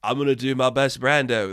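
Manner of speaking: lightly hammed-up self-admiring actor, a hint of pretension; mock a vain drama student, only lightly; pompous drama student. Critic mocking film-school actors, lightly pompous. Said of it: "students in film school ... just like".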